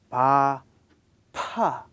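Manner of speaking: "pa" with a loud burst of held air; aspirated pa. Shown as a demonstration. Teacher shows the aspirated "pa" to students. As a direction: explode the "pa".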